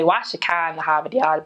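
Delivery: put-on Boston accent with the r dropped, "cah" and "Hahvahd Yahd"; flat open Boston "ah" vowels. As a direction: drop the r's the Boston way. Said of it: "so they say".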